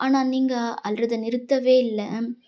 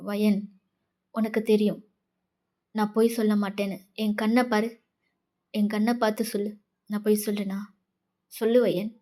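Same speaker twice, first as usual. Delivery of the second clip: earnest senior; 2 semitones lower than usual. Acted. Senior asking Wayan to look in her eyes, steady and sincere. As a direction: calmly press to be believed.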